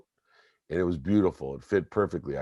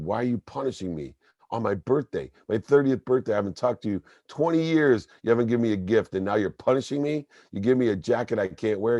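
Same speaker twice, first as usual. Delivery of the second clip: raised, higher-pitched accusation; angry retort; 6 semitones higher, 3 dB louder, faster than usual. Retold or imitated. Son confronting his father on the phone, raised and angry. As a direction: fire the questions back, hurt and angry.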